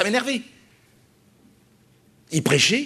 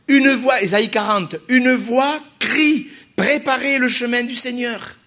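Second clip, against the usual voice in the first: higher and louder, slow on "Une voix crie"; proclaiming scripture; 5 semitones higher, 3 dB louder, slower than usual. Acted. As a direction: call it out like a prophet in the desert. Preacher proclaiming scripture loudly.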